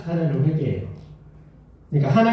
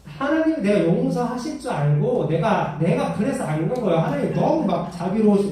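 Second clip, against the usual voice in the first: angry complaint; 4 semitones higher than usual. Retold or imitated. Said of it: "막 화를 내면서 이렇게 하는 거예요".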